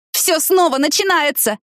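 «Всё снова начинается!» cried high and slow, stressing «снова»; a slow, high, desperate cry. A narrator's reading. Tina crying out to Danny in despair. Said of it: "закричала она".

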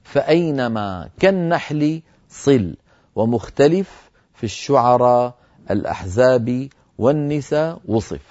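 slow chanted verse; slow recitation of a verse of poetry; poem recitation. Shown as a demonstration. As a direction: chant the line of poetry slowly. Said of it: "في البيت التاسع والثمانين".

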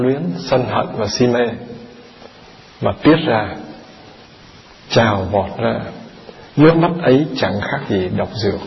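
deliberate, segmented reading of a teaching; measured scripture reading. Acted. Monk reading Na Tiên's answer to listeners, measured recitation. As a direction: recite the answer phrase by phrase with pauses.

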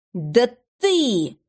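stammering boss at a loss; confused muttering. A narrator's reading. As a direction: sputter it out, lost for words. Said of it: "бормотал шеф в полной растерянности". (растерянное бормотание)

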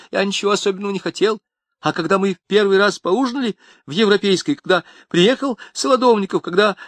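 nervous crook begging; pleading Tamarkin. A narrator's reading. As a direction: blame everyone else frantically.

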